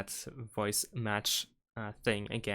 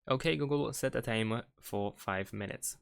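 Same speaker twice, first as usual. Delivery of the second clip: talking to voice assistant. Shown as a demonstration. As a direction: clear spoken command to phone. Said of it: "we need to say out loud the sentences".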